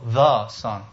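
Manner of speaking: "the" said as a full, weighted word before Son; stress on THE. Shown as a demonstration. Preacher showing the Greek definite article, stress on "the". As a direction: lean firmly on "the" in "the Son". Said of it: "uses the definite article".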